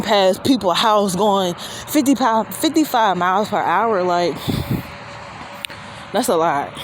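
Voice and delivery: heavy breathing between words; winded from the walk; breathing heavily. Real, not acted. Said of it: "I'm sorry if I'm breathing all heavy".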